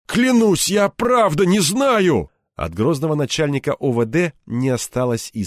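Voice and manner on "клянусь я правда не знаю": much higher, louder, slow begging; frightened colonel swearing he knows nothing; desperate plea. Acted. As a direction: beg him to believe you. Desperate pleading under beating.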